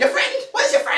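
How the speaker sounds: put-on high, cracked old man squeak. GM voicing the old lake hermit, high old man voice. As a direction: play the naked old hermit, high and quavery. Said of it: "He goes".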